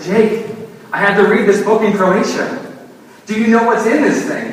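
a mock-panicked plea; alarmed outburst. Pastor urges his brother about the storybook, alarmed.

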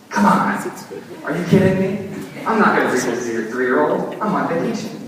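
a mock-outraged complaint to the host; exasperated disbelief. Telling the host's son he won't read it, exasperated. Pastor reacting to the crucifixion page.

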